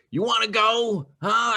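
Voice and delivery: high, loud challenge to a fight; loud taunt. Acted. Adventurer squaring up to the big guy, loud taunt. Player taunts enemy in character.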